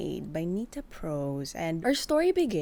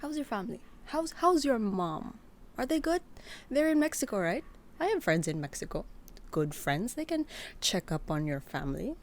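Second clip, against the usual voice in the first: menacing; 3 semitones higher than usual. Acted.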